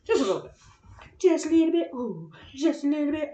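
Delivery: high, playful sing-out; silly voice. Pretend. Playing around alone while nudging things in the sand, silly high voice. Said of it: "I know I'm silly".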